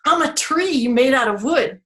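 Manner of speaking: the tree delivers the wood pun, lightly voiced; a hint of a joking tree; punny tree voice. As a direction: play the pun on wood with a grin in the voice. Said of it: "like if I were to ask a question".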